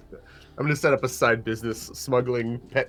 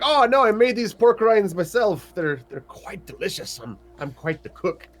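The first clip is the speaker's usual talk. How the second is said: proud little cook; 6 semitones higher, 3 dB louder than usual. Acted. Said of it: "I'll just say that, like".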